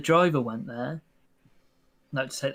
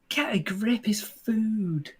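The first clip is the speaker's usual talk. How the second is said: high-pitched, incredulous retelling; mock exasperation; 7 semitones higher, much slower than usual. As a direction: act out being fed up, voice pitched up. Retold exasperated reaction to screaming kids.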